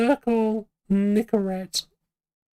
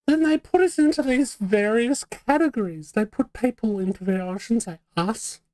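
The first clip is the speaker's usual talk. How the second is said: academic voice. Pretend. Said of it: "I don't know why I'm talking like this".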